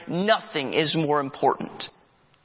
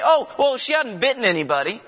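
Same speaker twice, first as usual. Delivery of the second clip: defensive dog owner; 6 semitones higher than usual. Retold or imitated. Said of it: "You say".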